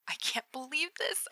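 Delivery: awed whisper. Acted. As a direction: barely breathe the words. Text repeated in building excitement.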